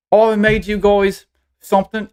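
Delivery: put-on high child voice, muffled by food; mouth still full. Girl still chewing jerky tells her heroes, high and muffled. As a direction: announce it excitedly through a mouthful. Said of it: "takes, like, a huge swallow".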